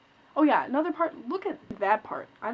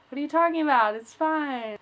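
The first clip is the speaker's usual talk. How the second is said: louder, higher mock defensiveness; retold defensive; 4 semitones higher, 5 dB louder than usual. Answering her mom in front of the hairdresser, louder and defensive. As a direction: brush off mom's worry. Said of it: "defending haircut to mom".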